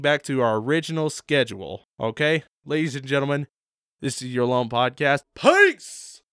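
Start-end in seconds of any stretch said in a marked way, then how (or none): 5.3-6.2 cheesy shout. Acted. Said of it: "That was freaking cheesy".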